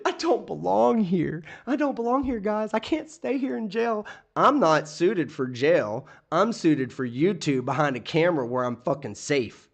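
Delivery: high, slow mocking whine that mimics him; mocking whiny imitation. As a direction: parody his self-pity in a high voice. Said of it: "That's what he's saying".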